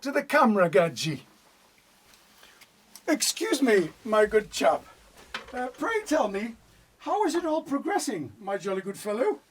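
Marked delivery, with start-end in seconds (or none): 3.1-9.4 hammed-up plummy upper-class English, a bit higher and softer; posh English accent. Asking the camera crew how it's going, in mock-posh English. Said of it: "Keith, I thought you were a Geordie".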